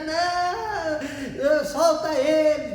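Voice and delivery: high, drawn-out pleading wail; hammed-up tearful whine; mock sobbing. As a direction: imitate a crying woman begging. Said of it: "Soluçando e chorando".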